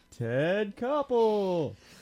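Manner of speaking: big, drawn-out show announcer delivery. Calling out a name: Saturday Night Live announcer's voice. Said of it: "I said Ted Koppel in the, uh, Saturday Night Live an-, an-, announcer's voice".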